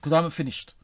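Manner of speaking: asking nicely through irritation; calm but firm. Real, not acted. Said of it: "I'm asking you nicely".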